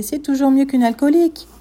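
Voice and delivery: loud, high shouting neighbour; yelled insult. Retold or imitated. Angry neighbour yelling across at mother. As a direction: fling the insult back at her. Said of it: "la dame qui gueulait".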